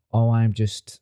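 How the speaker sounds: badly faked American accent, mildly done; half-hearted attempt at American. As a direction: start an American impression and give up. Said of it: "I can't do an American accent".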